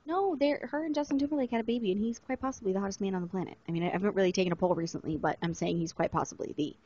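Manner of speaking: quick hushed whisper. Real, not acted. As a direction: keep your voice down, talk fast. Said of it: "I have to whisper".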